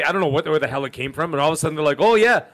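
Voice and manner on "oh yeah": louder, higher mock "oh, yeah"; Canadian challenge. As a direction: imitate a Canadian squaring up. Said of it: "a lot of the Canadians say".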